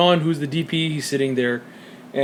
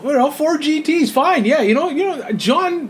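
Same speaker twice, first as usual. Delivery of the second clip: retold musing; 9 semitones higher than usual. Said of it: "And I'm like".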